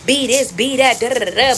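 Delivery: lightly acted mother's challenge; mama squaring up. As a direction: taunt like a mama ready to fight. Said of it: "But she like".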